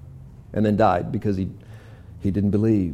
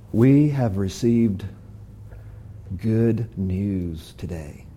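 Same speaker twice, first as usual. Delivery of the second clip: hushed awe; 7 semitones lower, 7 dB quieter, much slower than usual. Acted. Lepers announce news, slow hushed.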